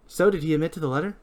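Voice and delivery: fast hard-boiled noir read. Acted. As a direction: slip into noir voice. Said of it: "I did the voice again".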